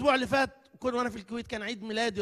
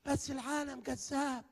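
lightly voiced grumbling man, a bit higher; complaining listener; 5 semitones higher than usual. Preacher imitating a man complaining about the world, a touch whiny. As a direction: mimic a worried congregant, mildly whiny. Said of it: "واحد يقول لي".

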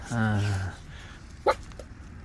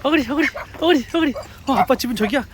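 calling the pet; 10 semitones higher than usual. Real, not acted.

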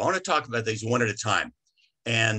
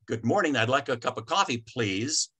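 courteous order lifting on please; polite, friendly order. Shown as a demonstration. Customer greeting the coffee store staff, polite and friendly. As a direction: order nicely, rising on the last word. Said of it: "in that tone of voice".

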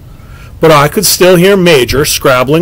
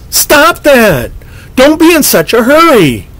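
much higher, sharp and shrill; strange shrill voice; 10 semitones higher than usual. A narrator's reading. Boy in the dark arbor snapping at something unseen, shrill and sharp. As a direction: snap it out in a strange high voice. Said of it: "in a strange, shrill voice".

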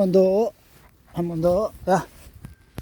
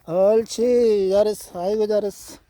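praising a dog; 2 semitones higher than usual. Real, not acted. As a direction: coo over a good dog.

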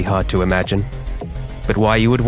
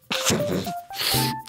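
softer acted cough; coughing fit; 8 dB quieter than usual. Voiceover artist interrupted by flu, coughing. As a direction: break off into a sick cough. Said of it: "feeling like this".

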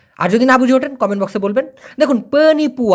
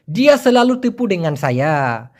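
very slow, each word laid out; slow Malay model phrase; 4 semitones lower, much slower than usual. Shown as a demonstration. Teacher dictating Malay to students, very slow. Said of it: "মালয়েশিয়ানরা এই কথাটা খুব বলে".

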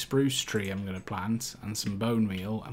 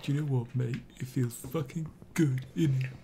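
mock British accent; 4 dB quieter than usual. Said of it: "Being British".

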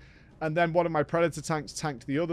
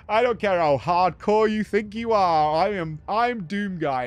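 tough-guy defiance; 3 semitones higher than usual. Retold or imitated. Voicing Doom Guy's defiance.

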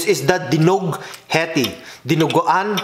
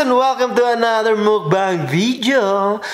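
excited greeting; 5 semitones higher than usual. Acted. Vlog intro greeting viewers.

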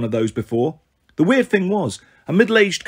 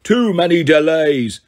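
bellow; 2 semitones higher, 4 dB louder, slower than usual. Acted. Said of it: "the monster bellowed".

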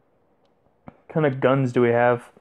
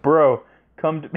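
shouted call. Pretend. Calling out to his bro.

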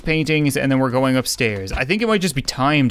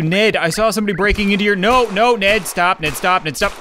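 pleading; 5 semitones higher than usual. Real, not acted. Being shot by Ned.

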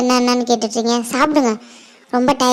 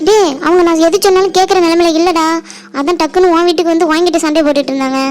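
raised, urgent self-defence; pleading defence; 3 semitones higher than usual. Acted. Girl explaining her mother to her friend, pleading defence. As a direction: explain it insistently, voice pushed up a little.

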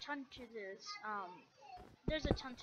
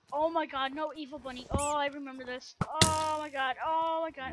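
panicked shouting; 4 semitones higher, 10 dB louder than usual. Real, not acted. Panics at evil bunny mob.

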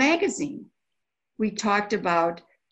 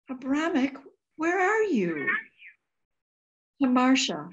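much higher, cracking call; desperate calling out; 5 semitones higher than usual. Acted. Sister calling her deported brother, desperate cry. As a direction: cry out to someone gone.

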